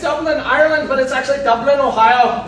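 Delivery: put-on Texan Irish accent. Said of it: "my Texan Irish accent".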